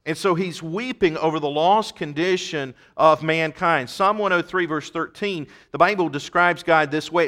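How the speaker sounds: loud, emphatic pulpit delivery; forceful preaching. Real, not acted. Preacher tells congregation why Jesus weeps over mankind, forceful and emphatic. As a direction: drive each phrase home to the congregation.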